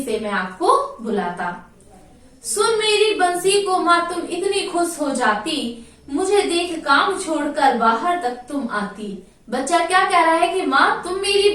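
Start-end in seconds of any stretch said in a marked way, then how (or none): 2.4-9.1 sing-song poem recital, lightly chanted; poem recitation. Acted. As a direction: recite the verse to the class in a lilting chant.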